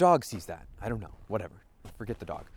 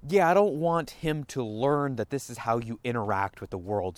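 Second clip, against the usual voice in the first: louder startled oh then a thoughtful aside; sudden realization; 4 dB louder than usual. Pretend. Parent catching himself on seeing his son, startled realization. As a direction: catch yourself mid-anger. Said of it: "you look over at your son and you go".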